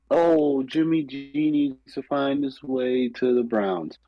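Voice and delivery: sarcastic imitation of eager fans; mocking clamor. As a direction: parody the hopeful fans. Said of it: "everyone who's clamoring".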